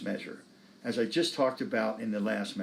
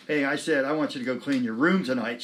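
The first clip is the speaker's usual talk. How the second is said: mildly emphatic mom; 4 dB louder than usual. Retold or imitated. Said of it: "a little more emphatic".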